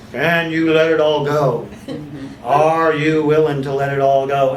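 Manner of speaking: slow, firm, commanding questions; authoritative voice. Shown as a demonstration. Therapist showing trainees the authoritative voice, slow and firm. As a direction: ask it with full authority, a touch of a laugh. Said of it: "I'll use that kind of authoritative voice".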